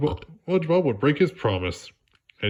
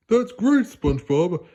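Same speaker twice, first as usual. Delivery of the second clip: excited Patrick; 8 semitones higher, 4 dB louder than usual. Acted.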